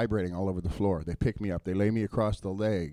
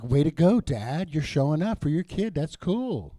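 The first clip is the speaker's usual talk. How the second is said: higher, louder cheer for the dads; 5 semitones higher, 6 dB louder than usual. Retold or imitated. Young men cheering the dads for showing up, loud and higher. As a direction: cheer them on like a proud fan.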